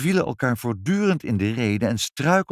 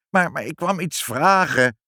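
higher, louder plaintive whine; complaining; 9 semitones higher, 5 dB louder than usual. A narrator's reading. Inspector being thrown out of the house, plaintive complaint. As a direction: stammer into a wounded protest. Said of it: "klaagde meneer Pinkepank".

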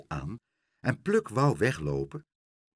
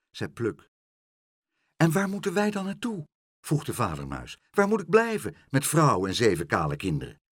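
worried father mouse; 2 semitones higher than usual. Acted. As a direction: plead like a worried little father. Mouse figure voiced.

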